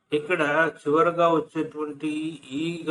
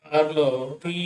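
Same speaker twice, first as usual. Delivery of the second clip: slow demo; slower than usual. Shown as a demonstration. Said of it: "sound ఉందన్నమాట".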